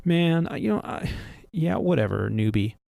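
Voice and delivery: dismissive, mock scoff; imitating a cocky copilot's scoff. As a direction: brush him off with a sneer. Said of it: "he scoffed at me".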